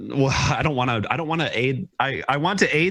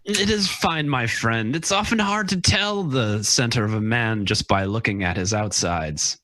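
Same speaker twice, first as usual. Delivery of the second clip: measured in-character wisdom; in-character reassurance; slower than usual. Acted. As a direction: reassure a friend in character, slowing at the end. Player speaks as their character.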